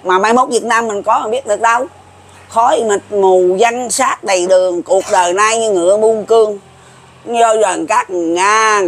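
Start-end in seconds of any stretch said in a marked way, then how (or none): 2.5-6.6 slow verse recital. Shown as a demonstration. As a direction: recite the prophecy verse slowly, drawing it out. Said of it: "Đức thầy ông nói á". (ngâm chậm câu sấm giảng)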